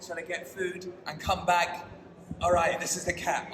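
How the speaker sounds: real excitement on finding the cat; excited. Real, not acted. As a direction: tumble out the questions in disbelief. Spotting the lost cat.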